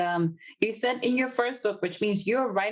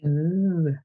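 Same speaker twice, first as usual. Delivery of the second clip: impressed ooh; 5 semitones lower, 5 dB louder than usual. Real, not acted. Host reacts to release news.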